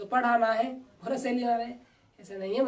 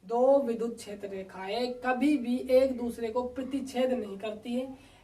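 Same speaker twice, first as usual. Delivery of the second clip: slow dictation; slower than usual. Shown as a demonstration. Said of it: "मैं बोल रहा हूँ".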